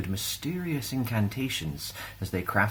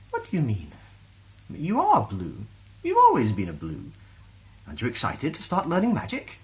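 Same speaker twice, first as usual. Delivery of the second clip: puzzled teacher; 6 semitones higher than usual. A narrator's reading. Teacher replies.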